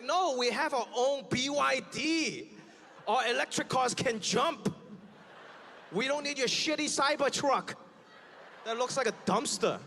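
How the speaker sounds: slow, laughing brag; smug boasting. Retold or imitated. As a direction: brag about your cars, mocking. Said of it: "They're like".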